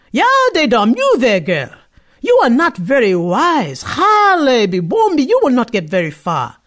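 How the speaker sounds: put-on the pot warns a foolish girl; scolding pot. A cooking pot calling after the girl, stern warning.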